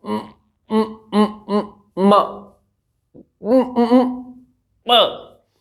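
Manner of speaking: mock stutter, lips straining on "म" and "प" repeated; forced stuttering demo. Shown as a demonstration. Teacher shows students a stammer from too much force, strained mock stutter. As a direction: push hard on "म", stuck and repeating, voice strained. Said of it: "अगर मैं जोर लगाऊंगा हद से ज्यादा".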